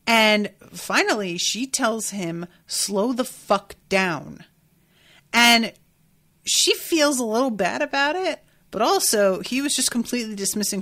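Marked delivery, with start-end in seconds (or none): 2.7-4.4 slow, weighted retold command; exasperated order. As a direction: spell it out slowly, mildly exasperated. Retells her exasperated order.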